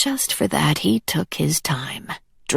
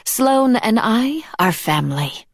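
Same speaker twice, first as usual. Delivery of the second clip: cheerful; 6 semitones higher than usual. A narrator's reading. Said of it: "she said cheerfully".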